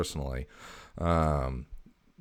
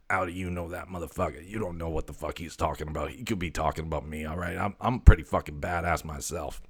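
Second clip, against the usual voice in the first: voicing the cat Graphite. Owner voices cat Graphite.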